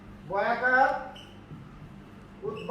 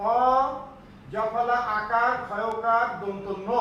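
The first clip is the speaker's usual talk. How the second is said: slow spelled-out demo; slower than usual. Shown as a demonstration. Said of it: "আর এখন হবে".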